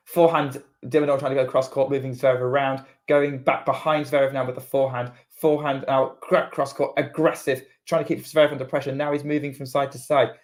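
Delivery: running tennis commentary; live play-by-play. Acted. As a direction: describe the rally as it unfolds.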